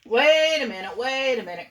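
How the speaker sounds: loud, high call to stop; crying out. A narrator's reading. Jack the narrator interrupts the birds, loud cry. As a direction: shout to halt them. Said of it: "cried Jack the narrator".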